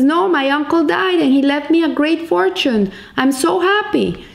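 very happy. Retold or imitated. Man telling his friend of an inheritance, very happy. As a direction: lightly act out gleeful good news. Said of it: "you look so happy".

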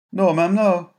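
a nervous lad from the streets; boy's voice. Acted. Tommy answering Mary, high and nervous. Boy pleads with mother.

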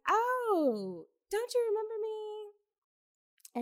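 a high, slow, gushing hello; mock sweet gushing. Claire greets Irene at the hotel, sweetly gushing. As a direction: coo it like a sugary old friend. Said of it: "She's like".

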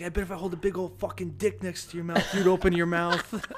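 retold tirade. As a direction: imitate a sergeant going off, leaning on the last words. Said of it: "He was going off on this guy".

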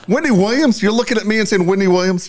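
high-pitched, indignant imitation of her; mock an offended, incredulous outburst; retold pissed-off disbelief. Guest offended by host's Wendy Williams suggestion, retold indignation. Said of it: "She was pissed".

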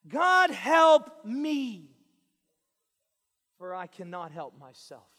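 a loud, drawn-out cry to God; desperate plea. Acted. Preacher voicing a sinner crying out to God, loud slow plea. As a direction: beg God out loud, stretching each word.

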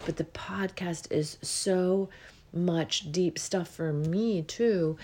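slow, breathy yawn; talking through a yawn. Real, not acted. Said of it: "I'm yawning to release as I go".

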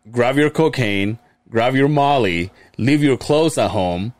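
slow, punchy club promoter hype. Retold or imitated. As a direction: sell it like a party ad. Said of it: "a promoter voice".

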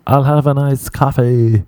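over-enunciate in a put-on American accent; mock perfect accent. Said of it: "screaming in the perfect accent".

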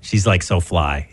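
put-on breezy Valley girl drawl, lightly done. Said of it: "your impression of local teenagers sound like a Valley girl".

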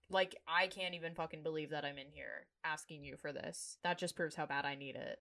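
quiet, subdued begging. Retold or imitated. Fired worker begging old manager for help, begging. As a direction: plead under your breath, softly. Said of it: "Fiona's kind of begging her".

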